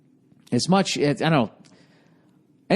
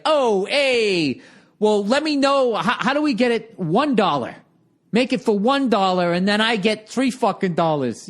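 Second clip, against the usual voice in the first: higher, smug pushy investor voice; mock greedy investor; 7 semitones higher than usual. Baldy pressuring the young sellers, smug. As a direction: squeeze them like a greedy shark. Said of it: "And then Baldy comes in, he's like".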